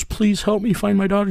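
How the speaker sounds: high, urgent imitation of a pleading mother; imitated begging. Mother begging for help finding her daughter, imitated pleading. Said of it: "she was begging me".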